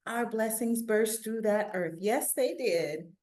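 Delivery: put-on steady read-aloud for children; story reading. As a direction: tell the story to listening kids. Reads picture book aloud.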